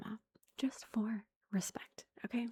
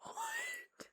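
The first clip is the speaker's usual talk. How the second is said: high squeaky "What?" of shocked laughter; shocked squeal; 5 dB quieter than usual. Real, not acted. Mom reacting to her son's rude joke, shocked squeal. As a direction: squeal it in disbelief, half laughing.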